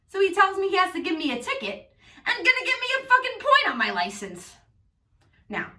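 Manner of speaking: telling the story in a Long Island accent; thick Long Island New York accent all through. Real, not acted. Vlogging to viewers about the cop, in a Long Island accent. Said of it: "why I'm doing this fucking accent".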